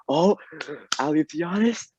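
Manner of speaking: high-pitched imitation of an excited play call; friend's excited call. Friend commentating the game over FaceTime, excited imitation. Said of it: "My friend says".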